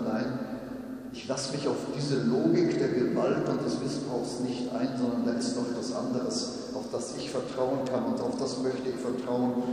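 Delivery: a defiant cry of trust; defiant and loud. Retold or imitated. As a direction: stand your ground, defiant. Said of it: "vielleicht sagt man es trotzig und vielleicht sagt man es laut".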